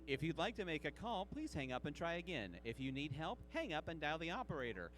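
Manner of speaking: recorded phone message voice; phone operator recording. Pretend. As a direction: read it like an automated phone line. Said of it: "that was me trying to solve that math problem".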